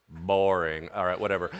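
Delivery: very low, unimpressed dismissal; mock boredom, sunk deep in pitch. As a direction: give up watching, utterly uninterested. Watchers lose interest.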